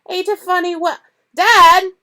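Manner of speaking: put-on high, loud childish whine; spoiled son calling his father; whiny boy. A narrator's reading. Dudley interrupting.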